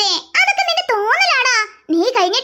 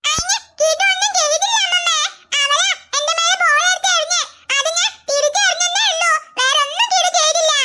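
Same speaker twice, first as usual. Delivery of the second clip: put-on little boy pleading; 3 semitones higher than usual. Child Kidu defending himself.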